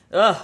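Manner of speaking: mournful groan; sad ugh. Real, not acted. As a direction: groan with missing someone. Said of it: "I miss my grandmother".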